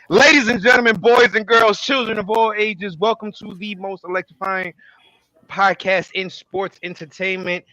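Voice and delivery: booming ringmaster intro. Acted. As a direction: announce it like a circus ringmaster. Ringmaster style show intro.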